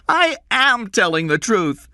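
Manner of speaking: put-on a young boy insisting on his name, nervous; scared boy Jeff.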